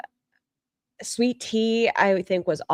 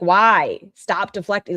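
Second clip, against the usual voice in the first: angry; 5 dB louder than usual. Retold or imitated. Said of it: "she was pissed".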